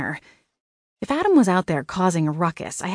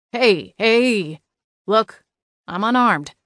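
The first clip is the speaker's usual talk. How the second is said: raised voice, mildly panicked man; slightly panicked; 4 semitones higher, 4 dB louder, slower than usual. A narrator's reading. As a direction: plead with a touch of panic, pitched up. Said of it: "He sounded slightly panicked".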